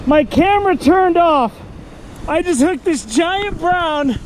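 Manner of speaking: real excitement, high and loud; excited. Real, not acted. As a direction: blurt it out, thrilled. Big fish hooked, camera off.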